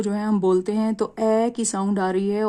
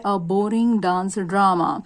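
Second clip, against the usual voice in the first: slow model reading; much slower than usual. Shown as a demonstration. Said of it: "teacher reads example slowly".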